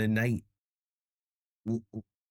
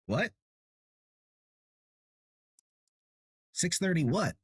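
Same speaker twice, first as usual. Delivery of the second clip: surprised; 8 semitones higher than usual. Real, not acted. Puzzled by chat message.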